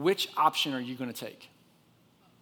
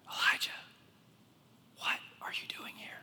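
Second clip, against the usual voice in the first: barely voiced divine whisper; gentle whisper; 7 dB quieter than usual. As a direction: whisper it tenderly, word by word. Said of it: "look at what that voice whispered to him".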